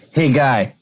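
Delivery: Hey, guy said as a quick, bright two-beat name; Hey guy sound. Shown as a demonstration. Co-host coaching how Haggai sounds, hey guy. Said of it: "So it almost sounds like".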